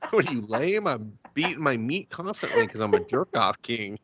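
a hint of a brash boaster, laughing; mock proud guy. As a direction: brag it while half laughing. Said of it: "Somebody's like".

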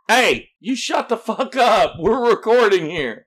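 mock telling-off. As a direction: holler at whoever is making the noise. Calls out to noise outside.

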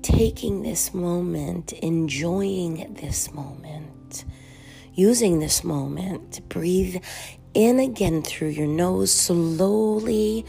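guided meditation. Real, not acted. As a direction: gently guide them through each breath, unhurried, letting phrases settle.

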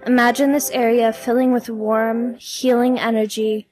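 measured meditation delivery with long pauses; guided meditation. Acted. Podcast host leading listeners through releasing stress, guided meditation. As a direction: guide the listener gently, leaving room to breathe.

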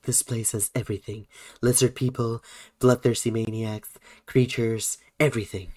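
a hint of a club promoter listing attractions; Stefan impression. Host imitating a Saturday Night Live character, lightly voiced impression. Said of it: "feel like Stefan from Saturday Night Live".

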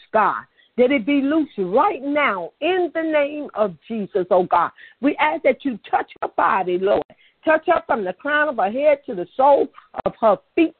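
fervent, pressing intercession for healing; urgent prayer over the sick. Real, not acted. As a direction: pray hard over her body, commanding the pain to go.

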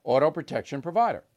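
upbeat host-read ad voice. Acted. Host pitching sponsor to listeners, ad read. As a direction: sell it like a radio ad spot.

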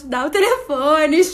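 drawn-out pleading, mildly whiny imitation of crying; half-acted weepy begging; mock tearful plea. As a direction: beg slowly, pretending to sob. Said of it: "eu chorando em prantos".

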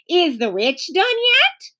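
lightly voiced small child; little girl voice.

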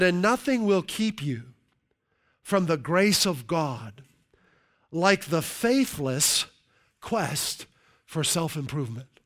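slow, deliberate reading of the quote. Shown as a demonstration. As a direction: read each phrase slowly with pauses. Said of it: "I'll read that again".

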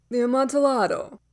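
projected character reply. A narrator's reading. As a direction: call it out to the man behind the wall. Narrator answers his trapped victim.

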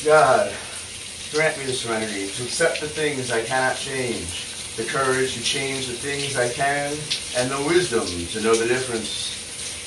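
prayer. Acted. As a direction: pray it earnestly, line by line. Serenity Prayer recited thrice.

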